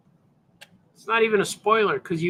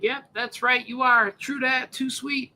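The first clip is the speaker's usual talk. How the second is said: Graham agreeing; 6 semitones higher, slower than usual. Acted.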